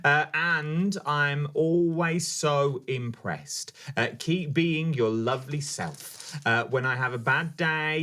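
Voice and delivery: slow, measured reading aloud; message read-out. Acted. Co-host reading a fan's message to the crafter, slow read-out. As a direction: read it out slowly, lingering on phrases.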